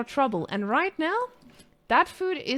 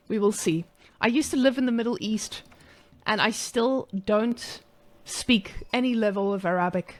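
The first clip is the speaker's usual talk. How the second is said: caster voice put on with a light South African accent. Streamer casting for chat in a mild South African accent. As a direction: call the match like a South African guy. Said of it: "I will be turning into a South African guy".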